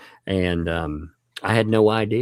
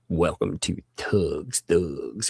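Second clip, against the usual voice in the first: slow, drawn-out welcome; tag-line relish; 2 semitones lower, 3 dB quieter, slower than usual. Real, not acted. Host welcoming a new member, slow relished welcome. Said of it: "I love saying it too".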